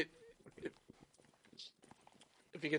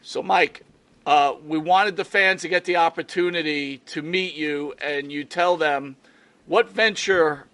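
speaking loud; 5 semitones higher, 13 dB louder than usual. Real, not acted. Host loudly asking the guest to announce his new show. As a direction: project every word to the guest. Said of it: "we need to speak loud".

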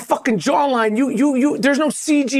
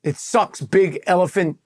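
low growl; 7 semitones lower than usual. Real, not acted. Deep comic growl of disgust.

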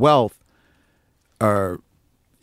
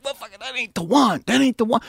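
a raised, lightly voiced Pino; imitating Pino; 12 semitones higher than usual. Pino rejecting takes in the studio, lightly imitated. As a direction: mimic his stubborn refusal. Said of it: "Pino would be like".

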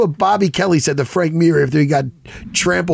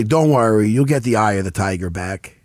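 low-pitched southern drawl; a hint of southern drawl; 7 semitones lower than usual. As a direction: imitate a reassuring southern drawl. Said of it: "In a southern drawl".

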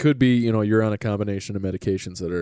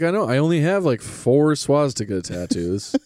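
mock sarcastic reply; 5 semitones higher than usual. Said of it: "And you were like".

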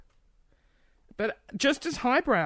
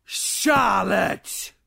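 mock scolding shout; 3 semitones higher, 6 dB louder than usual. Scolding a rude joke sender.

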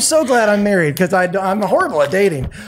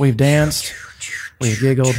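breathy whispered aside; whispering; 5 semitones lower than usual. Real, not acted. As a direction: drop to a whisper.

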